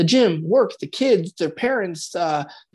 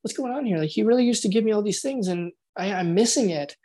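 mild hurt confusion, mock partner; puzzled partner voice. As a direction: wonder aloud what's going on. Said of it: "I'll change my tone of voice".

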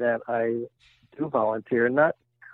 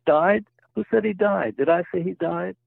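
higher and more indignant, pushing each question up; angrier retort; 6 semitones higher than usual. Retold or imitated. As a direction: joke patient snaps back at the doctor, hammed-up anger. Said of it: "more angry than before".

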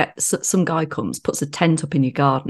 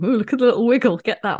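high cooing voice for a little one's dance; 6 semitones higher, faster than usual. Retold or imitated. Dad gushing over his son's Macarena dance, high cooing. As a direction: gush over the little wiggle.

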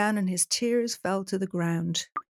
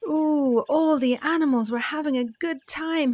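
excited bat; 6 semitones higher, 3 dB louder than usual. Acted. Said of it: "he thought".

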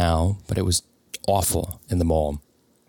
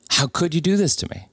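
higher, pleading repeat; higher anguished repeat to the cheating girlfriend; anguished plea; 7 semitones higher than usual. Retold or imitated. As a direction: let it crack upward in disbelief. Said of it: "are the words that came out of my mouth".

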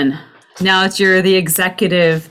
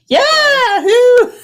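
laughing mock question; 5 dB louder than usual. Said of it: "it's like".

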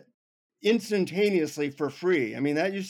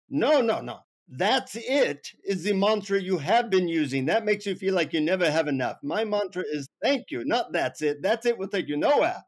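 stern guru scolding, pitched up; 4 semitones higher, 4 dB louder than usual. Retold or imitated. Guru corrects the disappointed traveler, very sternly. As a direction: imitate a guru's firm correction. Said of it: "he says, very sternly".

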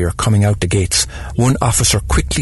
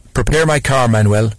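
a mild mock shout, a touch higher; shouted order; 4 semitones higher, 3 dB louder than usual. Employer calling to her gardener, a mild acted shout. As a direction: call the order down the stairs, lightly acted. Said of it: "she shouted".

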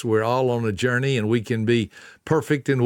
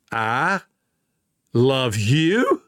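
offhand; much slower than usual. Shown as a demonstration. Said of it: "said in a different way".

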